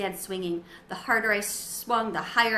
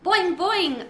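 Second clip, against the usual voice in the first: bouncy high boing; boing out like a springy frog; 9 semitones higher, 7 dB louder than usual. A narrator's reading. Frog sound in story.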